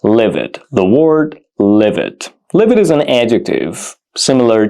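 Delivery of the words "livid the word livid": slow model word. Shown as a demonstration. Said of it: "which is livid".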